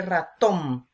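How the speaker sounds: "ratón" with the weight on TÓN; "ratón", last syllable stressed and held. Shown as a demonstration. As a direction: lean on the final syllable of "ratón". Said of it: "la sílaba tónica".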